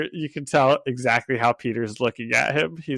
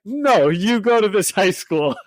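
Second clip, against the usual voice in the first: insistent mock Russian accent, pitched up; higher Russian-accented impression; 5 semitones higher, 3 dB louder than usual. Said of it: "he's doing it all in, like, a Russian accent".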